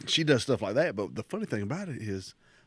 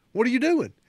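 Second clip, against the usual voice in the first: high, loud startled challenge; boss catching someone; 13 semitones higher, 7 dB louder than usual. Retold or imitated. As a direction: imitate a boss pouncing on the culprit. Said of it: "my boss snaps her head over".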